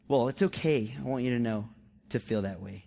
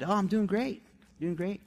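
higher, put-on everything's-fine reply; falsely cheerful; 5 semitones higher than usual. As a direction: cover up with a light, cheery answer. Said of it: "straight up lied".

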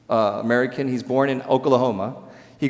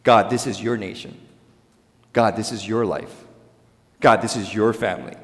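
humble prayer; 5 semitones lower than usual. Retold or imitated. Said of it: "As opposed to".

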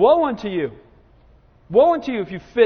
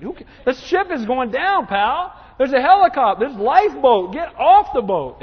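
urgent preacher's shout; 5 semitones higher, 6 dB louder than usual. Acted. Mocking deck-chair squabblers, urgent warning.

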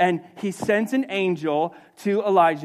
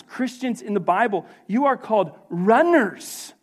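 rhythmic list in a raised preacher's voice; emphatic preaching; 5 semitones higher, 3 dB louder than usual. Real, not acted. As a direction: punch each title, then let it land.

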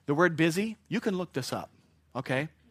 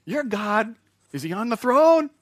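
louder, higher teasing question; mocking; 7 semitones higher, 8 dB louder than usual. Elijah mocking the false god on the throne, loud and teasing. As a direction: make fun of them openly. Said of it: "He is making fun of them".

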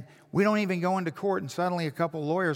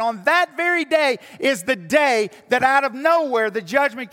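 much louder and higher, full-force preaching; 7 semitones higher, 8 dB louder than usual. Acted. Pastor rallying his congregation with the hope of the resurrection, preaching at full force. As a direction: drive it home to the congregation.

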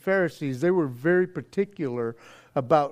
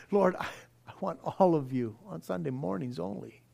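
mock prayer; 3 semitones lower, 10 dB quieter, faster than usual. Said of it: "the condition that we usually say".

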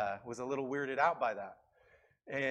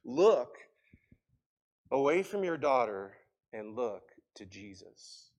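calm voice; 5 dB louder than usual. Retold or imitated. Pastor steadies a frantic mother, calm voice. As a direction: start firmly, then ease down calmly. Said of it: "told her in a calm voice".

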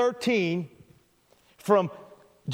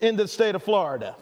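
exasperated dad shout; 5 semitones higher than usual. Retold or imitated. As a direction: bark the empty threat. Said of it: "famous worn-out line".

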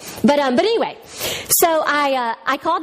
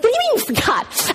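mock outrage; 10 semitones higher than usual. Retold outburst at husband.

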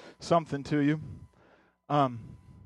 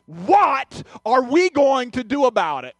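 defiant challenge; 5 semitones higher, 4 dB louder, slower than usual. Retold or imitated. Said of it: "kinda almost defiant".

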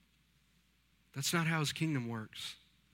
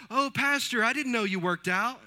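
high, loud mock-surprised churchwoman; imitating Hazel; 9 semitones higher, 6 dB louder than usual. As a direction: play the surprised church member, pitched way up. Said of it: "She goes".

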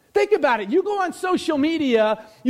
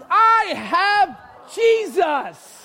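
triumphant reveal, drawn out; proud exclaim; 5 semitones higher, much slower than usual. Real, not acted. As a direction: hold up the prize and shout it out. Shows off a talking doll.

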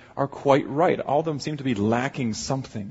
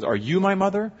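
pitched up high like a small chick; baby bird voice; 7 semitones higher than usual. Acted. Baby bird asks the cow in a high little voice. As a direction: ask it high and hopeful, rising at the end.

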